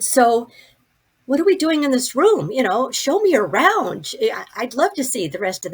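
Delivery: high, lively, excited asking; retold bubbly curiosity; eager request. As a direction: ask like an eager newcomer wanting a tour. Eager request to dead friend.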